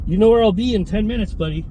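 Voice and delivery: put-on stopping the truck to warn the old cyclist, menacing; retold threat. Threat shouted from his truck.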